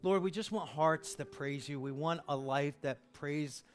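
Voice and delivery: earnest pastoral prayer; closing prayer. Acted. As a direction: pray sincerely over the church.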